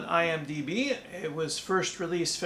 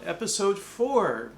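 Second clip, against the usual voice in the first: robot voice; 3 semitones lower, slower than usual. Pretend. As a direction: drone it out like a machine. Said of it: "I'm talking like a robot now".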